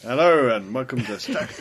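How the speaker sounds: put-on halting, half-hearted American accent; attempted American accent. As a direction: try an American accent and give up. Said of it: "your impression of an American accent".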